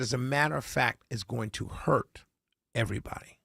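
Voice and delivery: low, soft, earnest retelling; very sincere. Retold or imitated. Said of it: "she looked at me and very sincere".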